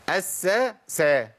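أس سا broken apart, each s distinct; three separate seens. Shown as a demonstration. Teacher breaking the word up for students, أس سا syllable by syllable. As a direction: hold the s of أس, then a fresh سا. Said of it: "تلات سينات".

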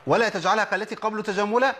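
verse intoned, rising at the end; recited verse again. Shown as a demonstration. Teacher repeating the verse for students, intoned. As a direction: recite it, lifting on تجملا. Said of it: "يعني القلقلة ميلها للفتح".

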